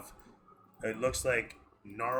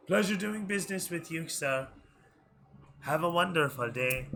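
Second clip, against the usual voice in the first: put-on cheery old gnome; 6 semitones higher than usual. Gnome bids customer farewell.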